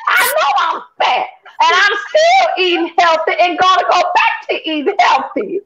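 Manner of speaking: yelling back, near tears, at the accusation; angry shout. Real, not acted. To the host who put her diet on air, furious near-tearful shout.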